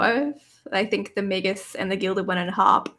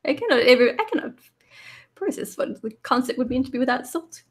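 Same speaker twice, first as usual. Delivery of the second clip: higher, cute little robot voice; chirpy tiny automaton, higher pitched; 4 semitones higher than usual. Acted. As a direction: play a sweet little copper robot. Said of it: "It's like".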